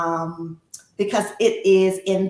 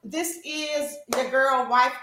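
high, loud, whooping sign-off; excited cheer; 9 semitones higher, 9 dB louder than usual. Real, not acted. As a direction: cheer loudly, then launch into the outro.

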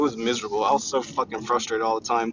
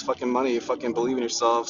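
usual speaking voice

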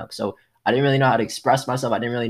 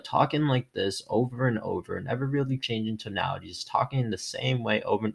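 monotone demo; 2 semitones lower, 7 dB quieter than usual. Shown as a demonstration. Host showing his old boring voice, soft monotone. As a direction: drone it out with no change in tone. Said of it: "So my voice sounded exactly like that".

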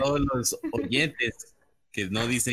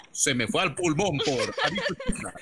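laughing award announcement. Retold or imitated. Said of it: "premio ganador a la frase del podcast".

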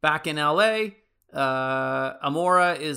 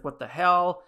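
shocked disbelief; 5 semitones higher, 5 dB louder than usual. Retold or imitated. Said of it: "shocked that he's reacting".

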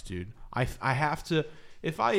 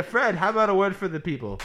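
put-on old-timey radio announcer; 8 semitones higher, 5 dB louder than usual. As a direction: enunciate like a forties broadcaster. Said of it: "old-timey radio voice".

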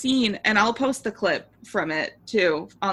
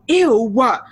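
imitating a scandalized yelp, about to crack up; disgusted shock; 2 semitones higher, 10 dB louder, slower than usual. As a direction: blurt it out in hammed-up revulsion. Acting out David's disgusted shock.

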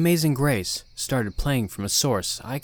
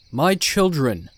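commanding but gentle preacher; a kind but firm cult leader; authoritative yet kind; 4 semitones higher, 6 dB louder, slower than usual. Acted. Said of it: "speaking with an authoritative, yet kind tone".

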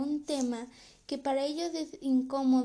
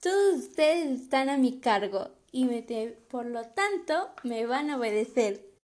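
mild, retold yell, a little louder; lightly raised voice for a mother's retold shout; mock mother's yell; 4 dB louder than usual. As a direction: imitate a mother laying down the law, half-shouted. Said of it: "gritó mucho más fuerte esta frase".

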